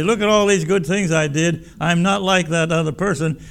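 mock proud claim of good works; boastful self-righteous. Self-righteous boast before God.

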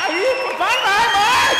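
very high, very loud rallying yell; hype shout. Pretend. Speaker eggs on the applauding audience, rallying shout. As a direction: shout to pump the room up. Pumping up the crowd.

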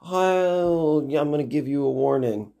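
lightly voiced bus driver giving a warning. Bus driver warning the kids, lightly acted voice. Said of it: "the bus driver is like".

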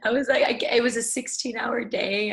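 amazed laugh at how much it was; laughing in disbelief at the workload. Real, not acted.

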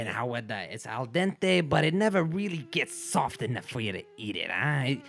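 mock Italian accent drifting into Irish; wobbly Italian-Irish accent; Italian turning Irish. Shown as a demonstration. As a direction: start Italian, slip helplessly into Irish. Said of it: "it'll always end Irish".

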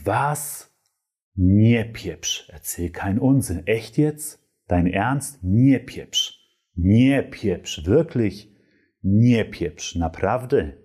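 playful amazement, stress on "Nie"; mock disbelief. Friend reacting to unexpected marriage news. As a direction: act stunned by surprising gossip. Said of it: "dann kannst du auch sagen".

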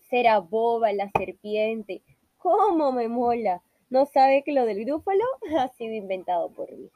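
pleased little mouse laughing at its trick; gloating mouse with a chuckle. Acted. The mouse laughs alone that the snake fell for it. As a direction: chuckle over the fooled snake.

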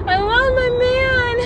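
high, slow, tearful voice breaking; barely getting it out through tears; crying. Real, not acted. Missing boyfriend, voice breaks crying.

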